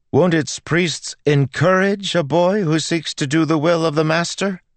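high, loud indignant tirade. A narrator's reading. Girl shames the vicar before the cathedral, very loud. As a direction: make a public scene, ringing out. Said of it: "Melody said very loudly".

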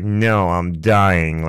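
slow, drawn-out fake suffering; understated pretend dying; sarcastic mock dying. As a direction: drag it out with mild sarcasm. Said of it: "it's a sarcastic response".

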